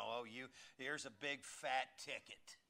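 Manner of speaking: talking parking meter. Retold or imitated. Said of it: "the meter's gonna go just".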